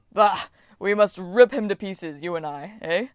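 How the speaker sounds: a loud Bah, then a gruff boast; the Titan scoffs and eggs him on; lightly voiced brutish Titan; scornful Titan. Koios urges violence.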